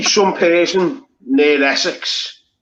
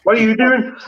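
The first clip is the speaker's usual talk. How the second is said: higher-pitched imitated question; mock questioning; 5 semitones higher than usual. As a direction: quote a nosy stranger, pitched up. Acting out people questioning a Scouser.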